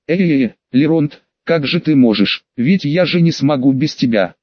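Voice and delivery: ordinary delivery, nothing marked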